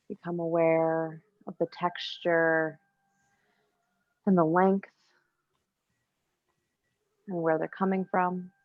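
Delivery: calm yoga teacher's cueing with long pauses; unhurried, evenly pitched meditation instruction; guided meditation. Real, not acted. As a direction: guide them gently into breath awareness, leaving space between phrases. Leads breathing awareness in yoga.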